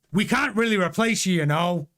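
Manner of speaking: put-on a light Austrian-German accent for Toto. Podcaster quoting Toto Wolff, mock Austrian accent. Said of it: "I won't do the accent".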